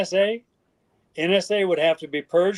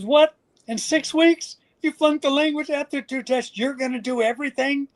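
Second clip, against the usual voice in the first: can't believe what he's hearing; incredulous; 9 semitones higher than usual. Retold or imitated. Interpreter doubting the soldier who flunked, incredulous. Interpreter stunned by his plan.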